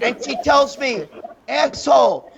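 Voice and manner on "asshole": higher, mildly raised retold yell; mock scream. Woman yelling at the driver blocking her, mock scream. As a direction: imitate an angry driver, not at full volume. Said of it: "She's, like, screaming at me".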